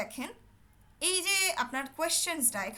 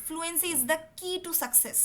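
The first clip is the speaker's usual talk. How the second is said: slow emphatic slogan; 2 semitones higher, much slower than usual. Shown as a demonstration. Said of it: "slogan stated slowly".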